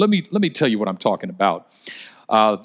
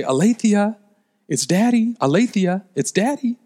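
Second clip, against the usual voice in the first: put-on calling to a small child; 7 semitones higher than usual. Dad calling to child on phone.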